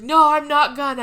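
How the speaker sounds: loud, high mock protest; George. George giving in to Frank, loud high mock assurance. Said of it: "George is like".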